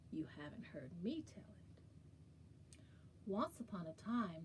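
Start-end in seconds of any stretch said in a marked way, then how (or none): 0.1-1.6 quick conspiratorial whisper. Acted. Storyteller teasing children, whispered. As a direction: let them in on a secret. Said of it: "playful aside to kids".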